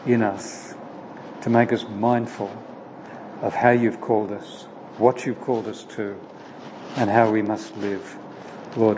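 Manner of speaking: measured, reverent prayer voice; a pastor closing in prayer. Acted.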